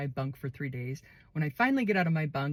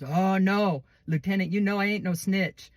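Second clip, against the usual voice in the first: louder, protesting refusal; mock indignant; 3 semitones higher, 3 dB louder than usual. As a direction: play innocent to the lieutenant. Inmate refusing officer.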